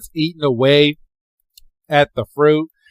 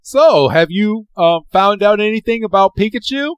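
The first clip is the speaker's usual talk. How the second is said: lightly voiced curious mom; mom on phone; 7 semitones higher than usual. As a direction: ask politely on the phone. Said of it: "gets back on the phone and is like".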